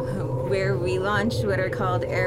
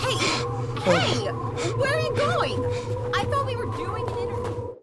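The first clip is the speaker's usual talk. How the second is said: high, calling after someone; 13 semitones higher than usual. Acted. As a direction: shout after him as he leaves. Calling after departing reporter.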